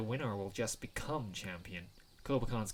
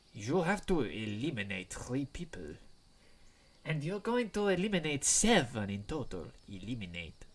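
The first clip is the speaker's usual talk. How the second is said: lightly menacing. Acted. Two students discussing eliminating opponents, mildly sinister delivery. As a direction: say "eliminate" as if it meant kill. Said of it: "it sounds like they mean kill".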